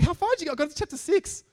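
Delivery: put-on high Indian accent exchange. Coworker telling how far he read, Indian accent. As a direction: keep the friend's Indian accent going. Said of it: "With a very pronounced Indian accent".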